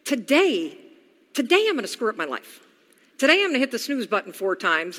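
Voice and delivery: quick, breezy mock enthusiasm, ironic; mock cheerful plan. Imagined self announcing a ruined day, mock upbeat. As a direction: sell the self-sabotage like a happy plan. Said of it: "wake up in the morning and go".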